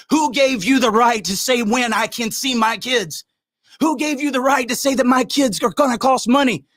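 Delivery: furious father challenging the courts; angry. Real, not acted. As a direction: confront them, voice climbing. Angry rant at the system.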